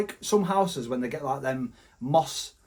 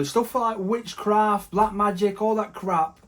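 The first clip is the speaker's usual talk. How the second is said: much slower, stretched out; slow emphatic; 4 semitones higher, slower than usual. Real, not acted. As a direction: drag out each word. Drawn out warning.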